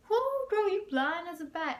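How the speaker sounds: put-on high, loud sassy "whoo girl"; sassy teacher impression. Teacher trying on her glasses, in a high loud sassy voice. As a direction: ham up the teacher as a sassy diva. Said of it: "I don't know why I made her sound like that".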